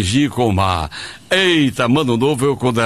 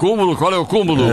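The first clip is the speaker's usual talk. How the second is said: high, puzzled "Cúmulo?"; surprised question; 4 semitones higher, faster than usual. Real, not acted. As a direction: echo it back in surprise. Surpreso com a palavra. (pergunta surpresa)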